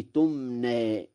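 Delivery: slow "تمنى", last vowel tilted toward e; taqlil. Shown as a demonstration. Teacher shows Warsh's taqlil, slow "تمنى" ending toward e. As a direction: say "تمنى" as tumne, drawn out. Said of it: "وله التقليل قولا واحدا".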